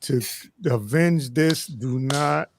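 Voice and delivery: slow, hammed-up dying words; overacted death scene. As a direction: plead like a fallen hero. Mock dying plea to clan.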